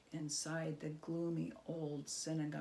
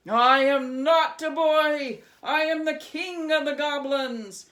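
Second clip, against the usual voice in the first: indignant goblin king; 7 semitones higher, 15 dB louder than usual. Acted. Goblin king furiously insisting he is no boy. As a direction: thunder back, offended.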